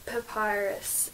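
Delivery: Papyrus said slowly, syllable by syllable, unsure of the sound; careful pronunciation. Shown as a demonstration. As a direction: spell out Papyrus slowly, checking how it is said. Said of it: "Is that how you s-, pronounce it?".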